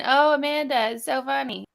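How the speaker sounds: mocking. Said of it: "Y'all thought y'all are going".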